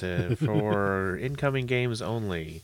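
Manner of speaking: slow PA announcer voice; airport announcement. Pretend. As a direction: announce it slowly like an airport tannoy.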